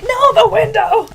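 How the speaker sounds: high, loud pretend dog voice; voicing the dog. Speaking for a distracted dog, high mock protest. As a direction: put on a high-pitched voice for the pet. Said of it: "She's like".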